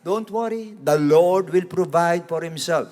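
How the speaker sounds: lightly voiced Abraham comforting Isaac; father reassuring son. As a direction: gently reassure the boy. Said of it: "Yung sinabi rin sa anak niya eh".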